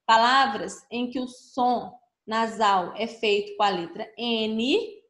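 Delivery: slow dictation. Shown as a demonstration. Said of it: "Complete o quadro abaixo".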